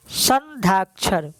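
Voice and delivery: "संध्याक्षर" drawn out slowly, part by part; slow dictation. Shown as a demonstration. Teacher dictating "संध्याक्षर" to students for their notes, slow dictation. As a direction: dictate "संध्याक्षर" slowly, with gaps between its parts. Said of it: "ऐसे आप लिख लें".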